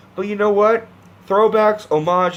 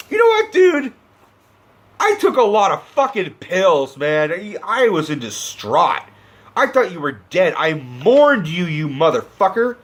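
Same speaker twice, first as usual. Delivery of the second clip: a mock-furious Alfred yelling at Bruce for faking his death; angry rant; 3 semitones higher than usual. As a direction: yell at him like a hurt butler.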